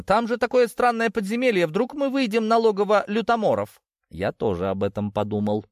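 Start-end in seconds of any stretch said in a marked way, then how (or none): 0.0-3.8 high-pitched concerned questioning; surprised objection. A narrator's reading. Юлианна warns about the strange dungeon, high surprised objection. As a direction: object in a much higher voice. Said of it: "удивилась Юлиана".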